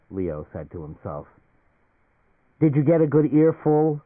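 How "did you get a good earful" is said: loud, higher, rough accusing demand. A narrator's reading. Leo rounds roughly on the listening consultant, loud rough demand. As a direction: bark it at the eavesdropper. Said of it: "he demanded roughly".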